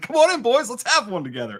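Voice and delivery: put-on overjoyed voice, very high, loud, swooping. Describing a man who opens his garage, happy to see the guys; imitating a happy man. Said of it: "he's just so happy to see you".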